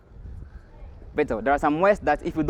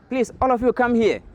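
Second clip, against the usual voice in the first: high-pitched, lightly acted tortoise announcement; Tortoise addressing birds; 9 semitones higher than usual. Tortoise gathers the birds before naming, higher lightly acted voice. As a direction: call the group over in a higher voice.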